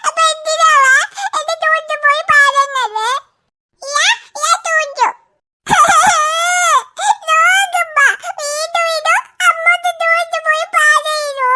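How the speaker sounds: put-on sobbing child's whine, half-laughing; acted crying complaint. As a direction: cry out the complaint like a hurt little girl. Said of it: "നീ കരയുന്നത്".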